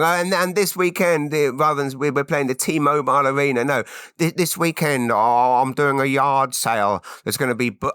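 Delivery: a light hint of Tony Hinchcliffe's announcing; Tony Hinchcliffe impression. Host imagines Tony Hinchcliffe plugging his yard sale, light mock impression. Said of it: "Tony Hinchcliffe on Kill Tony going".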